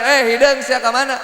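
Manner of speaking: loud, high rough banter; mock-harsh greeting. Man greeting his male friend rudely, mock-harsh. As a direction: hail a friend with playful insult. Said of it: "di depan sadis".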